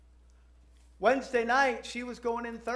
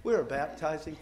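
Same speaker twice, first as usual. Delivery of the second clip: mock radio announcer, measured diction; 3 semitones lower than usual. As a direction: play the on-air announcer lightly. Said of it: "That my radio announcer voice?".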